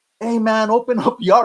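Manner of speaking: high, full-throated scream at top of lungs. Retelling pounding on a cell door, imitating screaming at the top of lungs. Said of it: "I was screaming at the top of my lungs".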